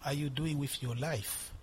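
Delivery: low, subdued voice of a nagging accuser; lightly voiced devil. Devil reproaching the preacher about his life, lightly voiced low accuser. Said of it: "the devil suggesting things to you".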